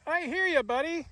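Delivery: high sing-song pet voice; pet talk. Real, not acted. Owner answering her cat in high pet-talk voice.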